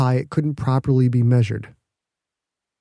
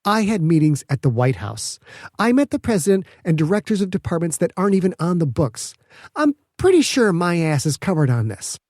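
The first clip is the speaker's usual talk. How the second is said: lightly higher, self-assured; mild raised confident scientist; Petra, defensive; 5 semitones higher than usual. Acted. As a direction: insist you're protected.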